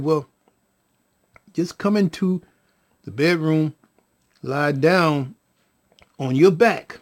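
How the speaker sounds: measured, phrase-by-phrase reassurance; calm instruction. Retold or imitated. Father settles the baby mother, calm. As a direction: guide gently, pausing between phrases. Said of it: "I just calmly said".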